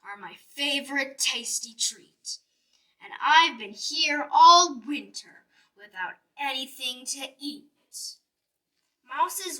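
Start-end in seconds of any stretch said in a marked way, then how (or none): 0.0-7.7 lightly voiced big bear, swelling louder; a hungry bear claiming his food; booming bear. Bear telling the mouse the apples are his, booming. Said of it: "boomed the bear".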